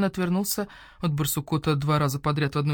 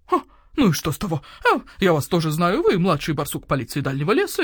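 owl shopkeeper voice; 4 dB louder than usual. Acted. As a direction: voice the grumpy owl merchant. Owl retorts.

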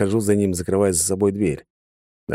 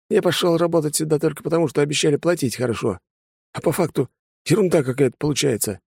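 fed-up hired thug; 8 semitones higher than usual. A narrator's reading. Hireling explaining why he quits, higher dismissive voice. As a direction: shrug off the gang. Third prisoner justifies himself.

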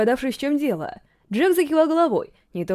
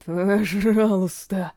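slow, hoarse, pleading word; hoarse plea; 4 semitones lower, much slower than usual. A narrator's reading. Prisoner begging the king's men, hoarse and slow. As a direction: rasp out a weak please. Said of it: "хрипло произнёс он".

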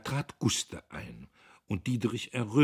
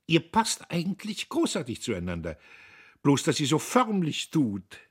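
put-on higher, fast, brittle chatter of a feverish young woman; Guste, feverish young woman; 9 semitones higher, 8 dB louder than usual. A narrator's reading. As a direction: rattle it off as Guste, nervy and edgy. Guste voiced by narrator. (Guste, höher und schnell, fiebrig plappernd)

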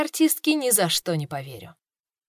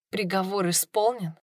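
quiet shocked question, softer; stunned disbelief; 4 dB quieter than usual. Acted. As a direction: echo it back in numb shock. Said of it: "echoed in disbelief".

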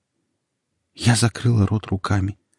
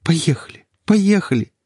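urgent plea; 10 semitones higher, 3 dB louder than usual. Acted. Desperate urging to flee.

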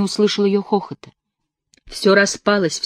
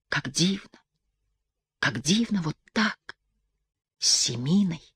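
soft, dreamy inner voice; 6 dB quieter than usual. A narrator's reading. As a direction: lose yourself in the dream. (мечтательно, тихо)

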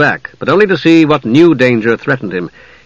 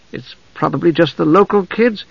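a hint of a higher-voiced mage; lightly voiced young mage; 5 semitones higher than usual. Palin guesses at the source of the noise, lightly voiced mage.

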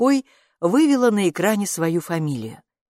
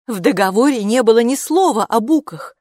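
indignant; 5 semitones higher, 6 dB louder than usual. A narrator's reading. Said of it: "возмутилась мама".

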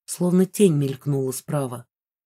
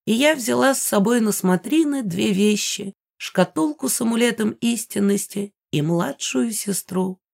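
put-on proud old woman; 3 semitones higher than usual. Megara proudly tells her past.

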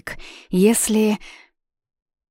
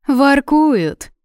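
high, loud, dreamily drawn-out coo; dreamy teasing drawl about the lovebirds; 9 semitones higher, 8 dB louder than usual. A narrator's reading. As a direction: stretch the word out dreamily, a touch mocking. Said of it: "мечтательно протянула Камали".

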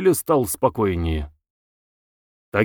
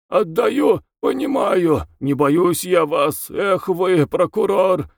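defiant raving prisoner; 7 semitones higher, slower than usual. A narrator's reading. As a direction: throw it at the prosecutor. Bezbedov defies the prosecutor. (вызывающий, взвинченный арестант)

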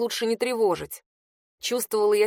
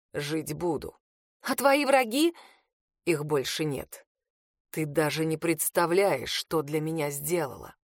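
low, softer, slow tired voice; a worn-out man grateful; weary Reed; 5 semitones lower, 3 dB quieter than usual. A narrator's reading. Exhausted Reed reassures her, low and tired.

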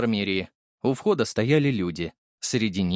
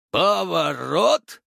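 loud, drawn-out, higher-pitched cheerful call; joyful announcement; 7 semitones higher, 4 dB louder, much slower than usual. A narrator's reading. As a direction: announce it gleefully, stretching the word. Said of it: "радостно объявил Боров".

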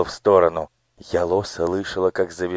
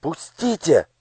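higher, struggling cry; girl's protest; 10 semitones higher than usual. Acted. Girl caught by the jacket, higher protest. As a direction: pull away and protest.

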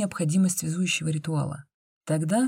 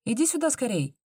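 urging; 8 semitones higher than usual. A narrator's reading. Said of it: "позвала Соня".

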